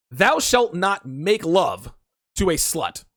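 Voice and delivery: slow, solemn biblical decree; mock-solemn commandment, slow. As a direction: proclaim it like scripture. Pronouncing his commandment.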